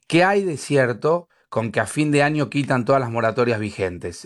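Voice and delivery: reading it out carefully; read slowly. Real, not acted. Host reading a listener's question to the expert, slowly. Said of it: "lo voy a leer despacito".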